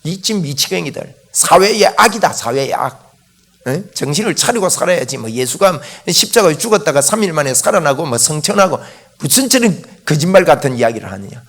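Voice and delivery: scornful Saul. Acted. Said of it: "예수 믿는 사람들 보고 미쳤다고 했습니다".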